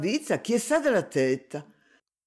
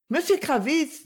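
gentle, higher-pitched address; lightly sweetened voice; soft voice; 10 semitones higher than usual. A narrator's reading. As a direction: say it softly, a careful approach. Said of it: "dit-elle d'une voix douce".

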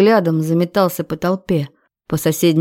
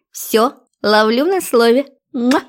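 put-on high playful girl voice; 6 semitones higher than usual. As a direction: catch him on his word, kiss. Girlfriend happy, blows kiss.

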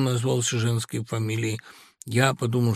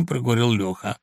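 usual speaking voice

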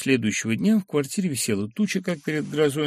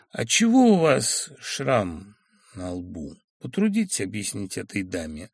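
insinuating; 2 semitones lower than usual. Acted. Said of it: "вкратчиво спросил".

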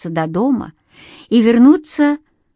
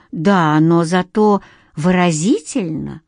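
slow, drowsy murmur, nodding off; 2 semitones lower, slower than usual. Acted. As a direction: murmur it as sleep takes over. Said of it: "пробормотала уже, засыпая".

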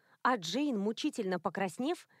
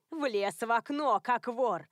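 put-on indignant old woman; slower than usual. A narrator's reading. Sylvia scolding Ralph.

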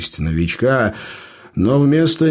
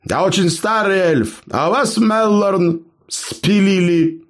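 innocent bluff; 9 semitones higher than usual. Pretend.

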